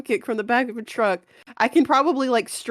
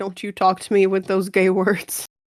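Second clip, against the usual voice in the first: ordinary talk, nothing marked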